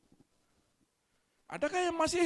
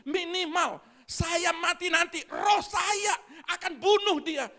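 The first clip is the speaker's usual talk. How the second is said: bitter congregant; 4 semitones higher, 4 dB louder than usual. Retold or imitated. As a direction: drag out each word of a grudge until it bursts. Acted bitter congregant vowing revenge. (jemaat yang dendam, lambat lalu berteriak)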